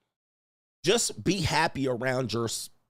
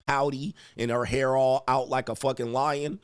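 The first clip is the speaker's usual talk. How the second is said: normal talking voice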